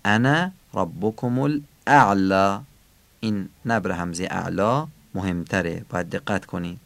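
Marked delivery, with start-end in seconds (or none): 0.1-2.6 انا and الاعلی with each opening hamza firmly struck; slowly recite, hitting the hamza starting انا and الاعلی; stress on the hamzas. Shown as a demonstration. Quran teacher showing learners the hamza stress in انا and الاعلی, stressed hamzas.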